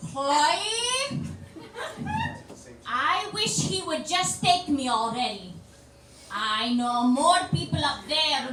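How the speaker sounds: lightly voiced old Greek grandmother lamenting; a hint of a tragic old yaya, sighing; dramatic monologue. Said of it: "this really, uh, dramatic monologue".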